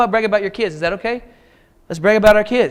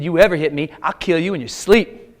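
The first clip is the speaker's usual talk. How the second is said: smiling threat; 3 semitones lower than usual. Retold or imitated. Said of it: "she smiled when she said it".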